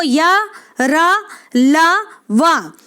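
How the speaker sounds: या, रा, ला drawn out slowly one by one; teacher spacing out या, रा, ला; slow listing. Shown as a demonstration. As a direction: list या, रा, ला slowly and deliberately. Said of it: "इन चारों वर्णों को".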